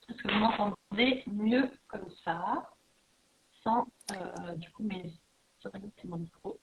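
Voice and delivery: distant, off-mic voice; far from mic. Real, not acted. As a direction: speak from away from the microphone. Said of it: "On t'entend de loin". (voix lointaine, loin du micro)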